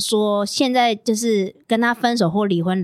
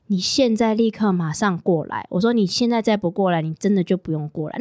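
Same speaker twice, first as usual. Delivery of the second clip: stern ultimatum; 3 semitones lower than usual. Retold or imitated. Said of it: "那是我跟他交往讲过最重的一次".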